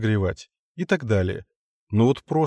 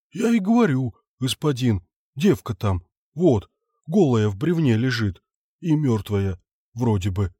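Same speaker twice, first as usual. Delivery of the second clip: nervous peasant. Acted. Frightened foreman explains.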